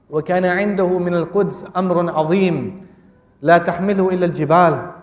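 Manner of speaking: rapid classical recitation. Acted. Recites historian's Arabic quote.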